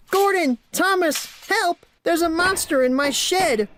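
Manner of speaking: high, loud terrified wail; wailing Percy. A narrator's reading. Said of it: "wailed Percy".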